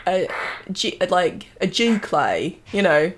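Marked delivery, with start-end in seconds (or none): 1.6-2.6 "gicle" slowly as jee-CLAY; "gicle" spaced out, ending in clay; guessed pronunciation. Shown as a demonstration. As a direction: sound out "gicle" with a j. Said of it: "I always think it was like a".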